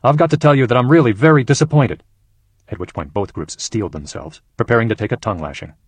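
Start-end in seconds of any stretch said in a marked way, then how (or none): 0.0-2.0 higher and louder, a stern opening. Acted. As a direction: brace them for a scolding. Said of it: "He started off sternly".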